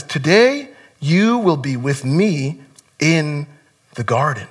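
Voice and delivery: soft, slow, quiet promise; hushed, slow reassurance; tender promise. Retold or imitated. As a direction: gently restate it as garden. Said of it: "And he says".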